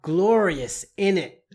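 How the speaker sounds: lightly voiced British English, in it clipped up high; British slang. Teacher demoing British slang in a light British accent. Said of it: "if you're British".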